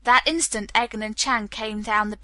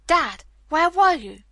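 higher, louder, drawn-out call to Dad; daughter's raised, slowed exclamation; crying out; 6 semitones higher, 5 dB louder than usual. A narrator's reading. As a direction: cry out the question to a parent. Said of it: "she cried".

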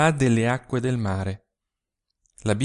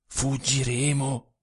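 surprised question; slower than usual. A narrator's reading. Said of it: "disse la fanciulla sorpresa".

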